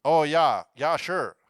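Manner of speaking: mock northern accent with falling swoops; put-on folksy northern accent. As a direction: play along in a broad northern accent. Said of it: "we have a northern accent".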